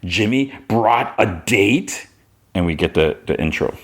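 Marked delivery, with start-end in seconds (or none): 0.0-2.1 slowed, wounded repeat; hurt, slow. Retold or imitated. Kara sees Jimmy's date and repeats it, slow and hurt. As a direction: let the hurt sink in slowly. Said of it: "And then she frowns".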